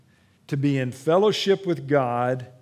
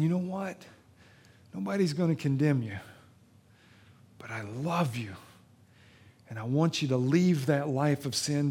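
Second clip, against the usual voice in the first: tender Jesus. Acted. Jesus speaking to listeners.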